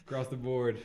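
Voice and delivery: mechanical, even robot delivery. Acted. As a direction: recite it like a cyborg. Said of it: "You sound like a fucking cyborg".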